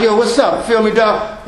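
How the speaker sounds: casual slang greeting, mocking the youth; lightly voiced young guy on the street. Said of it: "they got their hat on backwards".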